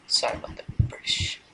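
whispered aside. Real, not acted. Whispered apology for accent.

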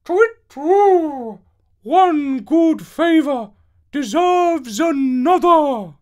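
high, loud, slow owl voice with a hoot; wise owl voice. Acted. Owl returning the favour to Avenant, high and hooting. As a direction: speak like a kindly owl, hooting first. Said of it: "She set this down before Avenant and said".

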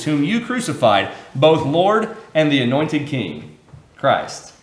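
solemn public scripture reading. Acted. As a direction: read the verses with weight. Reading Acts scripture aloud.

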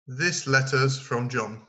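this letters from John, slow and careful; model answer. Shown as a demonstration. Teacher gives the class the model answer, slowly. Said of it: "vous auriez dû dire".

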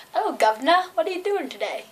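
lightly put-on Australian accent; attempted Aussie accent. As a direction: try a playful Australian greeting accent.

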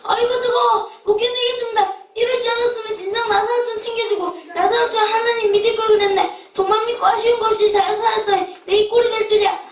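anguished groaning. Acted. Rich man in torment.

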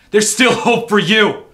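high, loud desperate shout; anguished scream. Acted. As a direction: scream with last hope. Urging visitor to flee.

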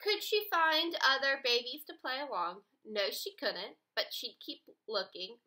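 put-on reading aloud to children. Shown as a demonstration. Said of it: "It would say".

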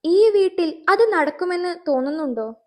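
stunned, indignant wife; cracked outraged voice. Acted. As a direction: blurt it out in disbelief. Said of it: "പിളർന്ന സ്വരത്തിൽ ഫാത്തിമയുടെ പ്രതികരണം".

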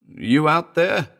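high, loud, slow call toward the stairs. A narrator's reading. Mellor calling to the stairs, slow uneasy call. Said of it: "he called".

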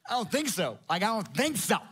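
high laughing disbelief; mock squeaky disbelieving protest; incredulous old Abraham. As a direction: scoff at the idea like it's a joke. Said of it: "And he's like".

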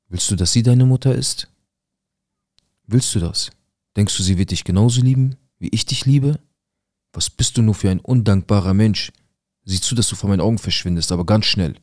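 mildly acted angry reproach, pressing on; imitating a mother's angry outburst; aggressive mother. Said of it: "Meine Mutter wird richtig aggressiv".

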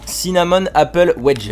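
English name read with a French accent. Real, not acted. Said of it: "excusez-moi mon accent français anglish".

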